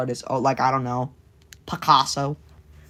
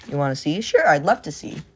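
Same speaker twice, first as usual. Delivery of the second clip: ordinary talk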